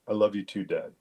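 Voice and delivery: measured, understated reply in a level pitch; grown-up sincerity. Retold or imitated. Son answering dad's goodbye on the phone, grown-up and sincere. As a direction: answer soberly, like a small adult. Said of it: "like I was talking to an adult".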